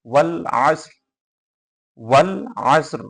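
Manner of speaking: ওয়াল আসর with a faint vowelless final r; barely sounded r. Shown as a demonstration. Teacher showing how much r is audible, ওয়াল আসর stopped on r. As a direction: let the r of আসর just be heard, no vowel after. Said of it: "আমরা উচ্চারণ করতেছি এতটুকুই বোঝা যাবে".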